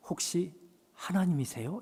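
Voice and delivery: hushed question. Retold or imitated. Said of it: "마음에 갑자기 찾아온 직감".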